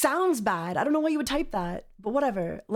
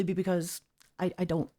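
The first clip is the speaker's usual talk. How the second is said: exasperated; 4 semitones lower, 4 dB quieter than usual. Real, not acted. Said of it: "a little frustrated".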